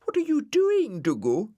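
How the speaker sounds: high surprised call upward. Acted. Florence calls up to Dougal.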